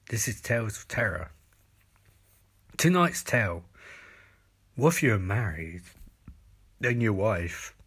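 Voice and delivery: measured, portentous tale-telling; mock horror storytelling. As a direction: tell it as a deadpan tale of terror.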